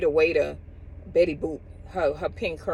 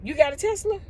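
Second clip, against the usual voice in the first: imitating a friend's challenge; 9 semitones higher than usual. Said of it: "he said".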